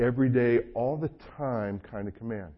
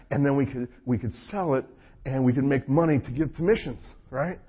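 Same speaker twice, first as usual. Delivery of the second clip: put-on higher, bubbly teen voice with quick asides; mock eager kid, raised pitch; eager kid pitching dad; 4 semitones higher, 5 dB louder than usual. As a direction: sell the idea to Dad like an excited teenager.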